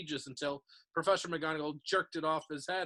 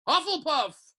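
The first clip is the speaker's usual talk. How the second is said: hat's announcement; 10 semitones higher, 8 dB louder, slower than usual. A narrator's reading. Hat announcing the house.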